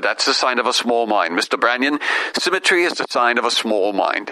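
imitated British accent, a little low. Colleague correcting his pillows on stage, British accent. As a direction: pronounce it as a British authority would. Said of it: "he said it with that British accent".

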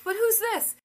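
put-on sing-song quizzing a toddler; high coaxing voice for a toddler; playful baby-talk questions.

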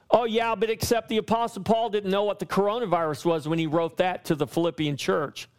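quick, run-on objector's voice; mock objection. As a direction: rattle off a doubter's excuse, mockingly.

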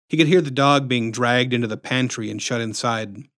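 ordinary delivery, nothing marked

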